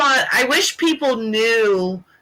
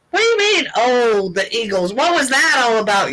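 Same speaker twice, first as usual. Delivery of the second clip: what do you mean, pitched up in disbelief; incredulous; 2 semitones higher than usual. Retold or imitated. A bird lover retelling her stunned reply to her friend, incredulous.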